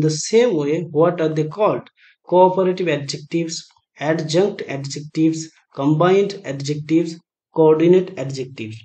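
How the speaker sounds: slow, measured reading of a question and its options; slow quiz reading. Acted. Teacher reading a quiz question aloud to students, slow and measured. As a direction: read each option out slowly for the class.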